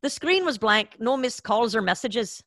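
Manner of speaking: put-on hesitant amateur Irish accent; rough stab at Irish, slightly Scottish; attempted Irish accent. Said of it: "you want me to do an Irish accent".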